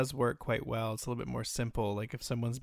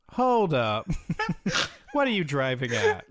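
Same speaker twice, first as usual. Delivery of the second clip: loud, higher mock challenge; theatrical interruption; 6 semitones higher, 6 dB louder than usual. More fun answer to a client's question, loud and theatrical. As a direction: break off and challenge with relish. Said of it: "so much more fun to do the".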